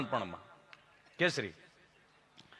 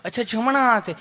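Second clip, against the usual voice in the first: lightly voiced, lovingly polite nurse repeating; mild honeyed nurse voice; sweet nurse; 4 semitones higher than usual. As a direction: echo him like a kind nurse. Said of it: "તમે કેટલું પ્રેમથી પૂછો છો".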